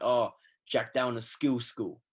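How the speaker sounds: slow, drawn-out mock jeer. Friends ribbing him about solo training, mocking. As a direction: imitate friends teasing, dragging the words. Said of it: "taking the piss".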